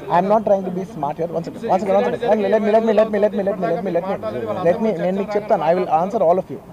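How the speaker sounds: loud, insistent, trying to be heard; calling out over a crowd. Real, not acted. Actor to shouting reporters, loud and insistent. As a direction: raise your voice to hold the room.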